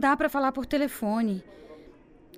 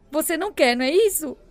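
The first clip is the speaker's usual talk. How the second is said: building louder, accusing him; angry accusation; 3 semitones higher, 5 dB louder than usual. Acted. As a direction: push the blame at him, getting louder. Accuses boyfriend, rising anger.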